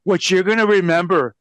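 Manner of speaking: mock wrestling promo voice; mock wrestler promo growl. Shown as a demonstration. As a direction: ham it up like a cheesy wrestler cutting a promo. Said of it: "wrestlers have this promo voice".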